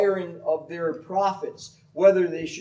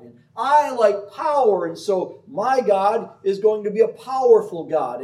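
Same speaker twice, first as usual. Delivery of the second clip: higher, louder voice of a self-willed idolater; selfish idolater; 5 semitones higher, 5 dB louder than usual. Acted. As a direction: brag like someone building his own god. Voicing a self-made god worshipper.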